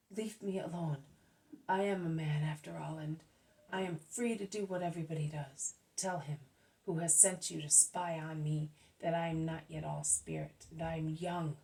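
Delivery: a lightly voiced Judas brushing off a scolding; low stubborn protest.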